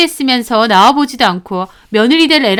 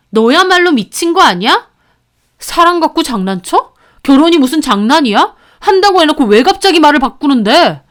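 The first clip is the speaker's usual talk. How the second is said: raised, higher indignant protest; angry boyfriend; 4 semitones higher, 4 dB louder than usual. Acted. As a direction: push back like a wronged fiance. Boyfriend argues on rooftop. (옥상에서 따지는 남친의 화난 목소리)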